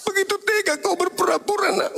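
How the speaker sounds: high, hurt mother's voice, laughing through it; a mother stung that her son only pretended; wounded mother. Mother hurt by her son's pretending, high and laughing.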